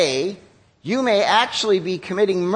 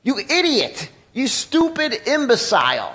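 lightly acted name-calling, a bit higher; mock insults; 3 semitones higher, slower than usual. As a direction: spit out the insults half-mockingly. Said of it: "words like this".

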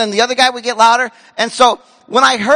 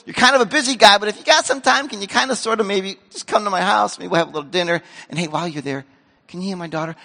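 casual ask; faster than usual. Retold or imitated. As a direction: ask as if it's no big deal. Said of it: "He's not saying".

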